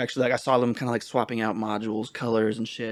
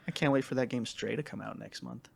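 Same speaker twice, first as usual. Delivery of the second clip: whispering; 6 dB quieter than usual. Real, not acted. Unvoiced whispered line.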